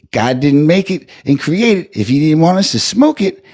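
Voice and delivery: put-on the old lady preaching sweetly about weed; elderly church lady driver. Driver offers her rider weed, high sweet churchy voice. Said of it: "So she say".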